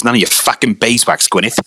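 lightly imitated Big Lez Show accent. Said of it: "try and get the accent right".

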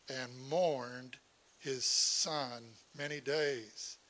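measured reading aloud from the Bible; scripture reading. A narrator's reading. Preacher reading Joseph's story to the congregation, measured scripture reading. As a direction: read the passage out deliberately, phrase by phrase.

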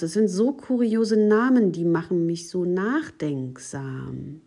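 lebhaft betontes Vorlesen für ein Kind; Märchenlesung. A narrator's reading. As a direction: read a fairy tale aloud with gently acted dialogue. Liest ein Märchen vor. (lebendig erzähltes Märchen)

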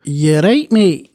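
best stab at Scottish, lifting at the end; attempted Scottish accent. Shown as a demonstration. Showing friends their best, attempted Scottish accent. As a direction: foreigner trying out a Scottish accent. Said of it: "That's my best".

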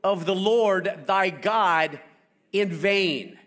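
slow, weighty reading of the commandment; scripture reading. Acted. Preacher reads commandment to congregation, slow and solemn. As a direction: read it like holy law.

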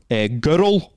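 put-on Scottish "girl" with rolled, extra syllable. Repeating it for holiday friends, broad Scottish "girl". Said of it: "Scottish sounding".

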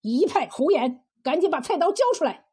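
mildly exasperated outburst, rising into a quick order; flustered angry yell. Acted. Bully demands the cook's knife after smashing her wok, exasperated. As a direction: dismiss it, then rush out the demand. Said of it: "气急败坏地嚷道".

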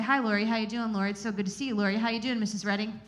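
imitating a rote, name-heavy hello; mock repetitive greeting. Showing how nobody greets a friend, mock repetitive. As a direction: run the greetings together with little variation. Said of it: "do we approach a person like that?".

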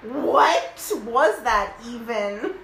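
incredulous. Real, not acted. Reacting to the story's abrupt ending.

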